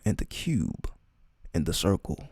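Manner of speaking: measured recital with long pauses; solemn scripture reading. Acted. Reading a sacred chapter to listeners, solemn and measured. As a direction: read it out deliberately, phrase by phrase.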